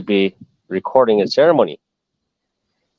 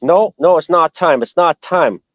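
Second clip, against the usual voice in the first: retold insistence; 4 semitones higher than usual. Retold refusal to raise flag yet.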